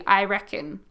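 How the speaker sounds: relaxed Australian I reckon; I reckon with easy Australian vowels; Aussie I reckon. Shown as a demonstration. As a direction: say I reckon like a local. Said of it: "That's very Australian right there".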